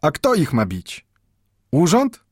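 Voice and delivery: put-on old Mendel answers the clerk warily; old Jewish bookbinder. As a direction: answer cautiously, warding off ill.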